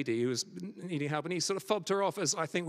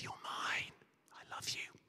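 whispered tenderly, very soft; soft intimate whisper; 13 dB quieter than usual. Acted. Jesus speaking to listener.

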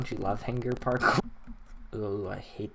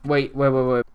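excited; 8 dB louder than usual. Real, not acted. Spots the hidden button.

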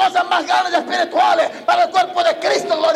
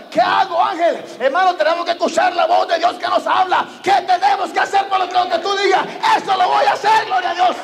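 eager Peter; 4 semitones higher than usual. Retold or imitated. Peter eagerly answers the angel.

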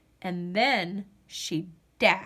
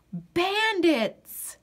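gasping, high startled bandits; a sudden fearful gasp; gasp of alarm; 7 semitones higher than usual. A narrator's reading. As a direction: catch your breath in shock. Sudden fright at night.

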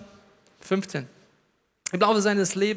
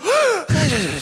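mock gasp; 8 semitones higher, 6 dB louder than usual. Mock shocked reaction.

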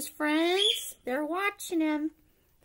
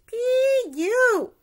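disgusted; 8 semitones higher, 6 dB louder than usual. Acted. Holding nose at skunk smell.

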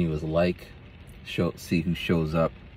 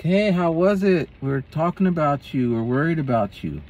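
high concerned ladies; 8 semitones higher than usual. Retold or imitated. Ladies at Zumba asking.

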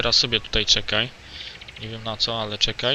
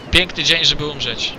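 dramatic sarcasm; 3 semitones higher, 4 dB louder than usual. Real, not acted. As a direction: deliver it like a doomed hero. Gracz ironizuje przed pewną śmiercią. (teatralna ironia)

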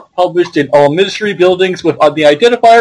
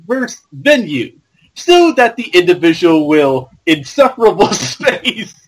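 goon voice; 3 semitones higher than usual. Acted. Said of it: "I should do the goon voice".

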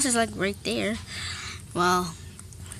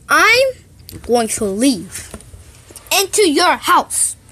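slow huffy threat; 3 semitones higher, slower than usual. Acted. Kid threatening to leave.

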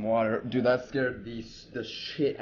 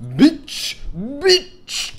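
taunting; 14 semitones higher, 9 dB louder than usual. Real, not acted. Taunting a game enemy.

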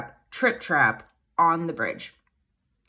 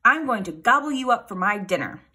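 troll threat; 4 semitones higher, 5 dB louder than usual. A narrator's reading. Troll threatens the bigger goat.

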